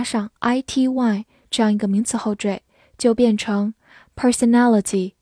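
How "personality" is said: personality with stress on per-son-AL-ity; stress on the third syllable. Shown as a demonstration. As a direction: lean on the AL in personality. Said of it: "注意重音放在了后面". (personality 重音在后面)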